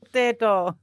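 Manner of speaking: amateur go at an Irish potato; attempted Irish accent. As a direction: try an Irish accent, not quite landing it. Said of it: "I can't do accents".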